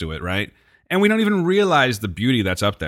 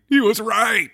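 much higher, mock-amazed cry; overwhelmed realization; 10 semitones higher, slower than usual. Friend imagining the awed visitor at the viewpoint, mock amazed. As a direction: blurt it out in mock wonder. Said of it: "You start crying".

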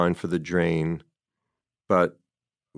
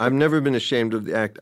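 attempt at her voice; 4 semitones higher, faster than usual. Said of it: "I wish I could do her voice".

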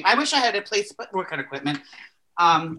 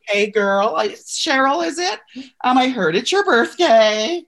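put-on slurred, slow, drunk-sounding birthday greeting; mock drunk cameo; 5 semitones higher, slower than usual. Drunk-sounding birthday cameo for Cheryl, slurred and slow. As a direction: ham up a tipsy cameo greeting.

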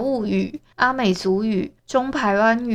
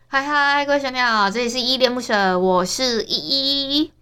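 higher, rushed cheerful opener; perky fast intro; 4 semitones higher, faster than usual. Shown as a demonstration. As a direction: rattle off the greeting brightly. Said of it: "还是熟悉的开场白最对味".

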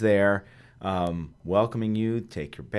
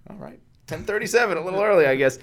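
much higher, meek and apologetic; sheepish reply; 9 semitones higher, faster than usual. Retold or imitated. Early golfer answering the gate sheriff, sheepish. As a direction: play small in front of the sheriff.

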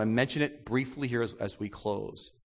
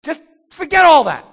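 loud, higher, indignant griping; rebellious complaining; 10 semitones higher, 9 dB louder than usual. Retold or imitated. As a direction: whine at God about the stupid tree. Voicing humanity's rebellious complaint.

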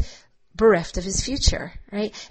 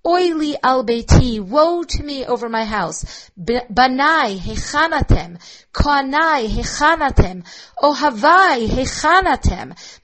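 mild lament; 2 semitones higher than usual. Acted. God mourning his destroyed house, mild lament. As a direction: read God's lament with understated grief. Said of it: "Haya kadosh baruch hu boche".

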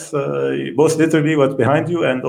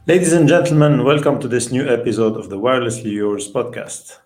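show opener; 6 semitones lower, 4 dB louder than usual. Acted. Host formally opens the episode.

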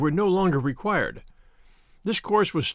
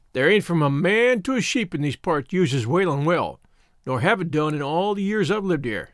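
lightly voiced rustic shepherd; a hint of an old countryman's dialect; old country shepherd. Shepherd warning young scouts off the well, in mild rustic voice.

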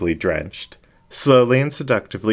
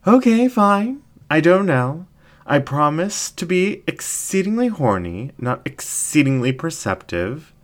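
scoffing incubus ringmaster; 10 semitones higher than usual. Acted. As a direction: toss it off with a playful scoff.

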